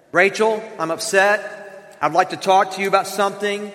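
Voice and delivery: calm, gentle and reassuring; husband calmly asking his wife to talk, gentle; gentle loving tone. Shown as a demonstration. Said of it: "here's what I should say".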